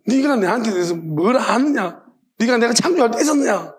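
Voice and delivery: God rebuking. Retold or imitated. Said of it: "하나님 막 꾸짖으십니다".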